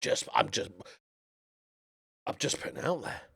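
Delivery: hushed, half-whispered aside; sheepish whisper. Real, not acted. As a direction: mutter it under your breath after boasting. Sheepish aside after bold boast.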